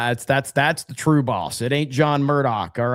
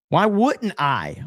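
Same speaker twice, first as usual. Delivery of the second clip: higher, slow, sarcastic "Why wouldn't I?"; mock eager; 5 semitones higher, slower than usual. Streamer sarcastically agreeing with chat, mock eager. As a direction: play along with a slow, raised "Why wouldn't I?".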